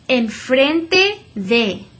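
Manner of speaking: very slow, clear "enfrente de"; slow model Spanish. Shown as a demonstration. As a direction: say "enfrente de" slowly for the class to repeat.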